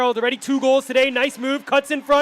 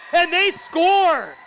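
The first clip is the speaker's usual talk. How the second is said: goal call; 6 semitones higher, much slower than usual. Real, not acted.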